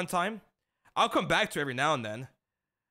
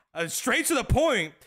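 amused; 8 semitones higher, 7 dB louder than usual. Real, not acted. Amused aside after dad's request.

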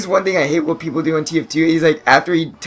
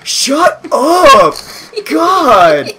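higher, louder shout with a laugh; annoyed yell; 11 semitones higher, 7 dB louder, much slower than usual. Retold or imitated. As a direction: yell at the troll to shut up. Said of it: "they're like".

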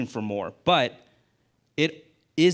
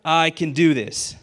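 excited disbelief; 3 semitones higher, 5 dB louder, slower than usual. Retold or imitated. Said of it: "as excited as can be".

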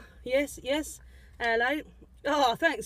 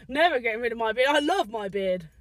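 emphatic declaration; 2 semitones lower, 4 dB louder than usual. Pretend. Declares love for his beard.

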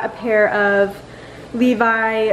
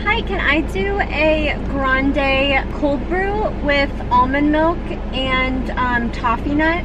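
ordering voice; 4 semitones higher, slower than usual. Real, not acted. Ordering at the drive-thru.

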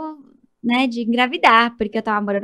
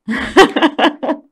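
loud laugh; 4 semitones higher, 8 dB louder than usual. Real, not acted. Recalling the surprise embryo on the scan, loud laughter. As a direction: burst of loud laughter at the memory.

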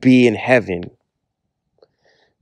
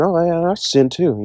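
casual church member; 6 semitones higher than usual. Retold or imitated. Church member admits sin casually.

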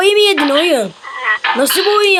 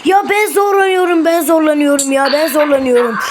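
frustrated whine. Real, not acted. Gamer whining in frustration.

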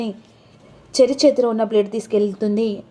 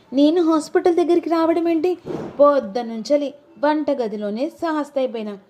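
voiced wife; 3 semitones higher than usual. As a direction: play the innocent wife denying it. Narrator voices wife Bhoomi.

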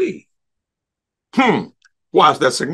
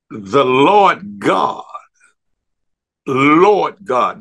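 "Lord" drawn out long and loud before "God"; stress on Lord; 4 dB louder, much slower than usual. Real, not acted. Preacher shows it's not just God, heavily stressing "Lord". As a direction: hit "Lord" hard, stretching it slowly. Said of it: "notice, not just God".

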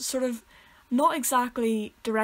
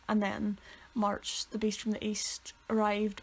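whisper; 5 dB quieter, slower than usual. Pretend. Dramatic retelling of the storm.

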